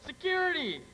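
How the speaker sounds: high call for security; urgent summons. Acted. Summons security after shooting.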